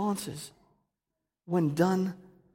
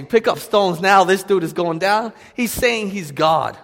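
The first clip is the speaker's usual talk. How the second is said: loud, slow mob shout, higher; angry mob; 6 semitones higher, 11 dB louder, slower than usual. Retold or imitated. Preacher voicing the angry crowd about to stone Jesus, loud slow shout. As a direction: bark it like a crowd grabbing stones.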